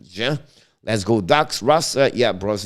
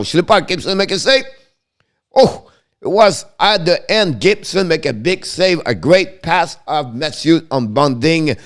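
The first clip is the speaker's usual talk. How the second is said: higher and louder, then slowed on the big save; excited call; 8 semitones higher, 7 dB louder than usual. Acted.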